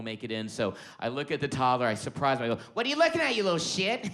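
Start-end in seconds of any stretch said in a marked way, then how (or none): 2.7-4.1 high, loud startling outburst; spring it on the kid, loud and high; sudden high-pitched comic bark; mock menacing yell. Improv surprise aimed at toddler.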